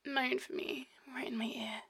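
breathy, close-up murmur; intimate whisper. Acted. Lover speaking right in a partner's ear, intimate whisper.

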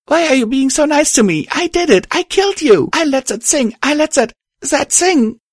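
loud, very high anguished outburst; hysterical guilt. A narrator's reading. Star confessing to the kind ghost, hysterical. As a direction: cry out, stumbling as words fail. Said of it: "I trailed off as my thoughts".

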